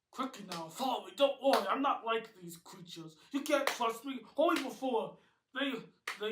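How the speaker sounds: loud, high urgent calling. A narrator's reading. Chuck the blue creature urging the humans to flee, urgent. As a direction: hurry them along, pressing.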